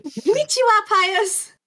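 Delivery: put-on high, bright anime-girl greeting; cutesy girl voice. Voicing character's cutesy greeting.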